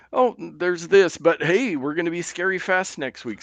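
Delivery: mocking Apple voice. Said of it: "So they kinda".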